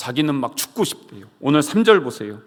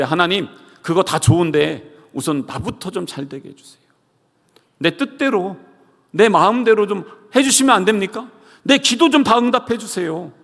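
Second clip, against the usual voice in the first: pleading demand that climbs higher to the end; whiny selfish prayer; 5 semitones higher than usual. Retold or imitated. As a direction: beg God like a spoiled child. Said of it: "라고 그렇게 이야기하는 것입니다". (떼쓰듯 조르는 기도)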